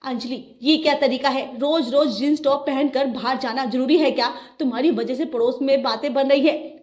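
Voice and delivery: a touch of a stern scolding. Acted. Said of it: "उसे जोर से फटकार लगाई".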